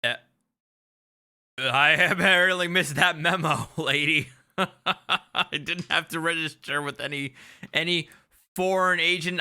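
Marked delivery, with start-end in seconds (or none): 1.6-9.4 talking through real laughter; amused, words broken by laughs; laughing. Real, not acted. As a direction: laugh as you speak the words. Laughing at the sovereign claim.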